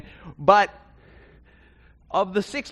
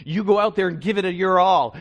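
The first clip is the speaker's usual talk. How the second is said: rousing pep talk; 2 semitones higher, 8 dB louder than usual. Pretend. Pep talk in locker room.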